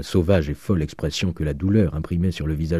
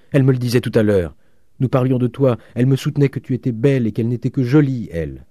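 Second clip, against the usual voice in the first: eager pleading; 5 semitones higher, 4 dB louder than usual. A narrator's reading. Father eagerly pleading between sisters.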